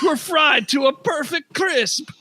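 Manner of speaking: hammed-up Jamaican storytelling; Jamaican accent. Shopkeeper telling the party about the monster, Jamaican accent. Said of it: "Jamaican accent".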